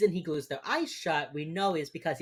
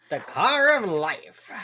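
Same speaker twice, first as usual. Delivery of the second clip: mock grand; 2 semitones higher, 6 dB louder, slower than usual. Mocking friend's metaphor.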